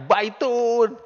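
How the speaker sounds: high, loud call of the word; shouted. Shown as a demonstration. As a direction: shout it out like spotting the house. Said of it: "langsung teriak".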